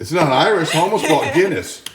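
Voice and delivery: chuckling while defending the beer; laughing it off. Real, not acted. Laughing as the off-camera voice teases him about the beer. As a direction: laugh through the words, amused.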